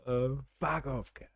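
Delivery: muttered mock Australian "fuck off, cunt"; a lightly done Australian insult; a hint of an Aussie bloke. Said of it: "how Australian someone is".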